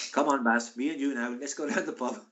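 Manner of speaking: put-on botched South Wales accent sliding into Indian. Teammate coaxing his pal to the pub, botched Indian-sounding Welsh accent. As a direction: attempt Welsh, drift into an Indian lilt. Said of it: "that's, that's an Indian accent".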